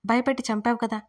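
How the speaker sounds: ordinary delivery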